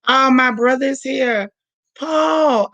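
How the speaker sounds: delighted, high call of his name; light up as a brother joins; excited greeting. Real, not acted. Host spots her brother in the live chat, excited call.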